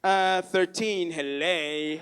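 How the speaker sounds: slow drawled thirteen, then a low hele; sarcastic kid dragging out the answer; sarcastic teen. Retold or imitated. Young dad answering his father sarcastically, accented hello. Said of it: "sarcastic thirteen-year-old".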